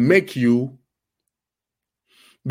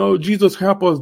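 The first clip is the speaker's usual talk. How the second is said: retold cry for help; 6 semitones higher than usual. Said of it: "crying, screaming".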